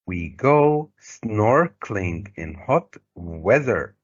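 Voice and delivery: SNORKELING stretched slowly, first syllable punched; slow demonstration, leaning on SNORKELING and WEATHER; marked word stress. Shown as a demonstration. Teacher showing how the stress will be, marked word stress. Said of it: "the stress will be like this".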